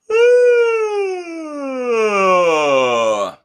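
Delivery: a big open yawning sigh falling down. Shown as a demonstration. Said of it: "the yawn sigh helps".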